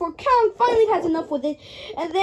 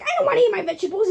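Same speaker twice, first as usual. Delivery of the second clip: put-on fast whiny kid voice, pitched up; 5 semitones higher, much faster than usual. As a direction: whine like a child refusing veggies. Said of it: "Godzilla's like".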